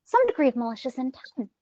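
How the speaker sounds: a hint of a scheming villain; villainous delivery. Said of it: "when you deliver it like that".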